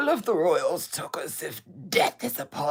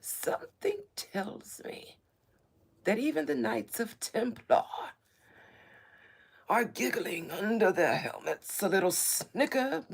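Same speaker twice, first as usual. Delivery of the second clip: mock ancient royal voice; 2 semitones higher than usual. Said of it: "talk like this in such an ancient voice".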